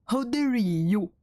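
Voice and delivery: slow, high indignant how dare you; mock outrage. Streamer scolding chat, hammed-up outrage. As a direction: overplay the offense.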